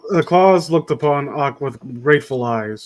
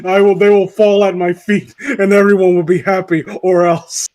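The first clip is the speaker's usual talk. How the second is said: lightly menacing tyrant's proclamation; mock power-hungry villain; 3 semitones higher, 4 dB louder than usual. Reader turns Claus into a tyrant, mock villainy. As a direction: declare it like a budding evil overlord. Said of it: "we're seeing the rise of Fire Lord Ozai".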